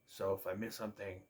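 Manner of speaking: mid-yawn, words stretched. Real, not acted. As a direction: talk through a yawn. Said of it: "Sorry, um, I can't stop yawning".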